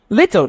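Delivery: LITTLE with the T softened toward an R; American-style little. Shown as a demonstration. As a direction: flap the middle of LITTLE. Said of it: "you change the L".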